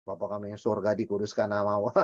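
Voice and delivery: mock rote recitation of the prayer; rattled-off mantra. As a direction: reel off the prayer mechanically as a mantra. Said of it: "Itu mantra".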